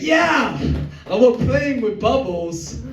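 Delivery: put-on high, slow, dreamy child voice; childlike husband. Husband answering his wife like a dazed child. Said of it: "he's sitting there like".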